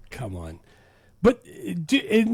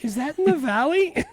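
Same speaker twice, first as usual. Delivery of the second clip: raised, high questioning voices; acted movie exchange; 10 semitones higher, 5 dB louder than usual. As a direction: play a phone spat between dad and daughter. Acted phone exchange of dad and Cher.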